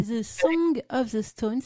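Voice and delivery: slow, careful "The Song of the Stones" with a French accent; French accent in English. Real, not acted. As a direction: read the English title slowly in a French accent. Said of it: "désolée pour mon accent".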